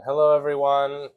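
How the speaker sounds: ordinary talk, nothing marked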